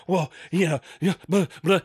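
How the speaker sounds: blah-blah the driver's dismissal; dismissive mocking. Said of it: "she was just like".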